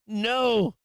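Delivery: high, loud emphatic yell; shouted no. Acted. Streamer answering his question to critics, shouted no. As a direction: holler the answer to your own question.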